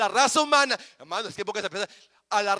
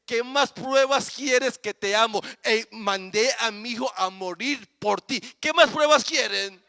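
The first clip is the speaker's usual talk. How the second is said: raised voice. Retold or imitated. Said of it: "el Padre alza la voz y dice".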